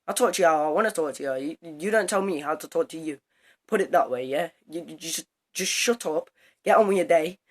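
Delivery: loud defiant rant at the teacher; retold angry telling-off. Telling off the new teacher, loud and defiant. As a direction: mimic snapping back at a teacher.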